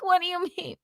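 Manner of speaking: mock-incredulous child, pitched high; baffled kid. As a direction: squeak it in disbelief. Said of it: "I'm like".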